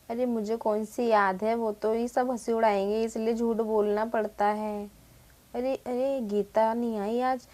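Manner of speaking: kept low so the teacher won't hear; quiet gossip between scared kids; hushed classroom chatter. Acted. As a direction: murmur it under your breath to a friend.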